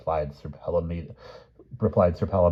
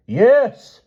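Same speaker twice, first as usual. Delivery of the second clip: much higher and louder exasperated yes; shouted yes; 12 dB louder than usual. Acted. Tutor shouts back at the questioning boys. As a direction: bark it out at the boys. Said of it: "shouted the unfortunate Paynim".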